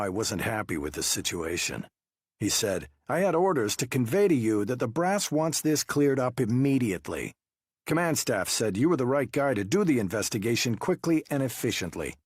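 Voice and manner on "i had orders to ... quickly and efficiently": detective voice. Acted. Wu conveying orders.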